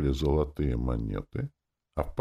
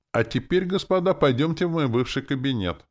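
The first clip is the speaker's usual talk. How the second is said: much higher and louder, a salesman's welcome; beaming pitch of a property agent; cheery realtor tone; 11 semitones higher, 5 dB louder than usual. A narrator's reading. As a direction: sell the room like an eager estate agent. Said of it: "радостным тоном профессионального риэлтора".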